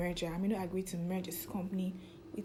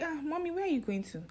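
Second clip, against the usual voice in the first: a lightly voiced son, pitched higher, half-pleading; 9 semitones higher than usual. Son to his packing mother, mild pleading higher voice. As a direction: son gently begging his mother not to go.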